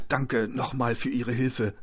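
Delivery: slow, croaky thanks; croaked. Acted. Injured man thanks the shop's cashier, croaking. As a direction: croak it out slowly, worn out. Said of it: "krächzte Hendrik".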